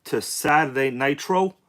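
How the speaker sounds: hyped streamer intro, drawn out; slow, stretched livestream welcome; YouTube voice. Real, not acted. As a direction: welcome the chat like a big show host. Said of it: "I don't know why I'm doing this YouTube voice".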